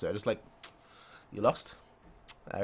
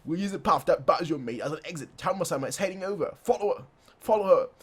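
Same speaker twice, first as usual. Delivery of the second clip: raised, higher urgent orders; raised urgent command; commanding soldier; 6 semitones higher than usual. Acted. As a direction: bark the orders up high. Voicing a commander.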